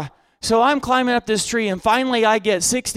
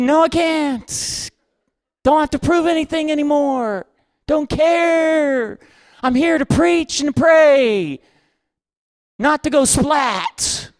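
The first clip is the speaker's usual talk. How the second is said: higher, drawn-out refusal; mock protest; 4 semitones higher, slower than usual. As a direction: plead your way out, stretching the words. Retold protest to the pushy mob.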